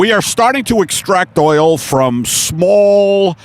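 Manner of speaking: slow, deliberate boardroom speech; brief the meeting as a mock boss; drawn-out corporate presenter; oil executive. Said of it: "the Shell Oil executives who have meetings".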